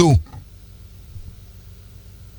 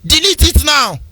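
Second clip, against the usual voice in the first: mock Facebook warning; 4 semitones higher than usual. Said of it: "Facebook will say".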